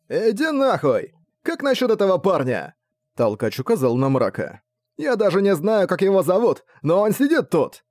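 high, angry yelling; furious shout. A narrator's reading. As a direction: shout him down in outrage. Enraged gang leader shouting.

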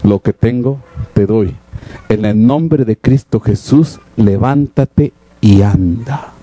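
low, solemn command, slowing at the end; solemn Apostle Peter. Acted. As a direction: speak low and weighty, stretching the final words. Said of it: "¿Qué le dice Pedro?".

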